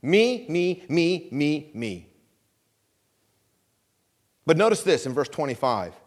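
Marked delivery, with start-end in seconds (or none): 0.0-2.1 repetitive "me" chant, fading and dropping at the end; mock self-centred Christian. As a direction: parody a me-first believer, winding down. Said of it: "that sounds like American Christianity".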